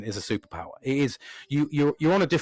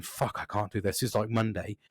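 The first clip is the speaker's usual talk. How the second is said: quiet, worried muttering to yourself; hushed panicked self-talk; anxious inner voice; 4 semitones lower, 6 dB quieter than usual. Retold or imitated. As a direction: mutter it under your breath, dreading it. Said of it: "I was, like, thinking".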